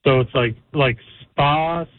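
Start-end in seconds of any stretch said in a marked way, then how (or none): 1.4-1.9 "Spasiba" drawn out syllable by syllable; slow demonstration. Shown as a demonstration. Caller teaches radio hosts Russian thank you, "Spasiba" slow and separated. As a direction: stretch each syllable of "Spasiba" slowly, like a teacher. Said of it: "One more time?".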